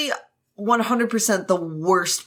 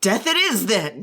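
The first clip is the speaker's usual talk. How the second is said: defiant. Acted. Brother choosing death over staying away, defiant. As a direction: throw out a reckless challenge. Acted quarrel, defiant answer.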